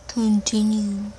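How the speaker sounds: CONTINUE stretched out slowly; drawn-out repeat. Pretend. Boy urging his friend on, slow drawn-out Continue. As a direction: draw out every syllable of Continue.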